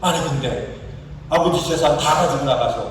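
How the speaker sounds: acted indignant grievance of a son; aggrieved son's mock tirade; angry complaint. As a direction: protest to father with mild, mounting resentment. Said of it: "분노하면서, 화를 내면서 이렇게 얘기합니다".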